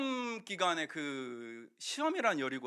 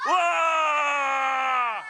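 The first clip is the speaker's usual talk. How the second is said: drawn-out loud high roar; long shout; 9 semitones higher, 11 dB louder, much slower than usual. Shown as a demonstration. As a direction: lead the crowd in a huge cheer. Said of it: "한 번 더". (아이들과 함께 길게 외치는 함성)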